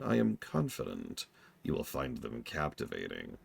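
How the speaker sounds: exaggerated thick German accent; hammy German-accented noble. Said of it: "speak this very exaggerated, thick German accent".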